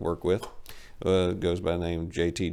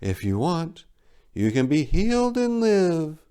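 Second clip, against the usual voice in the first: calm bird voice; 10 semitones higher than usual. A narrator's reading. Golden bird offering the dying narrator life, calmly. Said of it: "she calmly stated".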